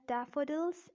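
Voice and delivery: British "daffodils" with a clear D; British-accent demo of daffodils. Shown as a demonstration. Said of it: "in British accent".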